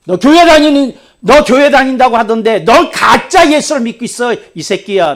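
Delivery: loud, high rough rebuke; stern pastor swearing at student; scolding curse. Retold or imitated. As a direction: tell him off bluntly. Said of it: "내가 욕을 했어요".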